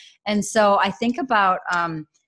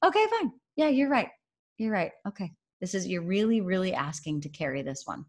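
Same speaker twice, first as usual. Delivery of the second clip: lightly voiced mom surrendering, softer and softer; giving in; 4 dB quieter than usual. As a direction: give in to the kid, trailing off quieter. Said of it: "So finally I was like".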